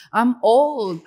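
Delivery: loud, drawn-out mock wail; mock crying. Imitating friend crying at twenty-three, mock wailing. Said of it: "she was crying".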